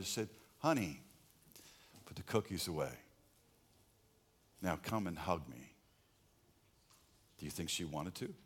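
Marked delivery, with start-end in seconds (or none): 0.6-5.7 gentle parent. Retold or imitated. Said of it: "And I changed my approach".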